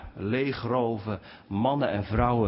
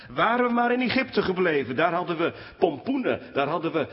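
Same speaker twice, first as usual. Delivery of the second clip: whiny complaining; 6 semitones higher than usual. Retold or imitated. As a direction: whine about what you left behind. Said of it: "klaagde het volk van Israël".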